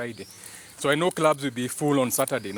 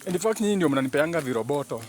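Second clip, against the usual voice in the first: higher, proud pampered dog voice fading toward plain; voicing the dog; 3 semitones higher than usual. Dog boasts to stray dogs he is clean and pampered, proud high voice. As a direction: show off, chin up, to the strays. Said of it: "kupea maumbwa zingine story".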